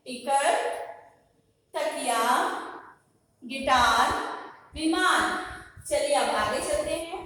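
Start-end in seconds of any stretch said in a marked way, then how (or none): 0.1-5.5 emphatic single words with room to echo; projected word-by-word drill, long pauses; repeat-after-me pronunciation. Shown as a demonstration. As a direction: call out टिकट, तकिया, गिटार, विमान for pupils to copy. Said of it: "आप मेरे पीछे बोलेंगे".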